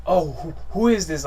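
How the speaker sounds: loud, mock-angry demand; mock mad. Playing along with the scam caller, mock anger. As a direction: fake being furious at the caller. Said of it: "Like, all mad".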